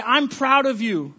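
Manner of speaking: slow, tender parent praise; slow, loving words from parent to child. Shown as a demonstration. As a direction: speak slowly and gently to your child. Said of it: "We can say".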